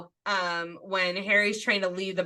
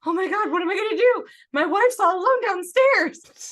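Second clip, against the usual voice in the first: panicked Ron; 10 semitones higher, 5 dB louder than usual. Retold or imitated. Ron panicking during ministry break-in.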